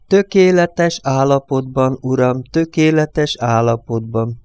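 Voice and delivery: slow, eager assurance; the priest assuring Luigi, slow and earnest; insisting. Acted. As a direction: insist it twice, slowly. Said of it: "bizonygatta a plébános".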